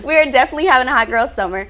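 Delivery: rushing the words out, very fast, through laughter; laughing. Real, not acted. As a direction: laugh and blurt it out. Laughing claim about hot girl summer.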